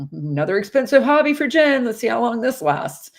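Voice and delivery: high, mocking voice of doubters; mocking skeptics. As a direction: sneer it as the doubting family. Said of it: "everybody's like".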